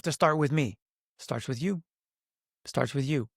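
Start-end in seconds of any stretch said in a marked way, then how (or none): 1.2-1.8 inner voice, quiet. Retold or imitated. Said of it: "next thing that came through". 2.6-3.3 inner voice. Retold or imitated. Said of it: "next thing that came through".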